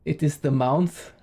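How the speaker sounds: "month" said as "mounth", with an "ow" vowel; vowel shape. Shown as a demonstration. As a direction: make "month" rhyme with "south". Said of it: "they have this interesting vowel shape".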